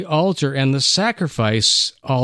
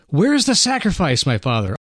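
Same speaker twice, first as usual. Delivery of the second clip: pleading son; faster than usual. Acted. Son pleading with confused father.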